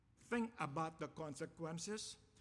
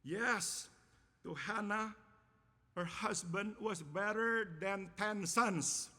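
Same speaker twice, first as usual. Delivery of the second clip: raised, slow and emphatic, drawing out "better than ten sons"; emphatic affirmation; 4 semitones higher, 4 dB louder, slower than usual. Shown as a demonstration. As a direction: proclaim it in pieces, leaning hard on "better". Affirms Hannah's view, before the contrast.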